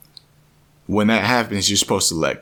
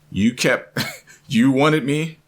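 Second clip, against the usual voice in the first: raised, slow challenge; higher-pitched, deliberate taunt; imitated confronting being; 6 semitones higher, slower than usual. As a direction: confront them as an all-powerful being. Being confronts him, voiced.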